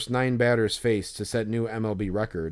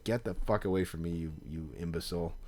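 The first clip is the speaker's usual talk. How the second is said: muttered retort; 4 semitones lower, 6 dB quieter than usual. Retold or imitated. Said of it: "I'm just like".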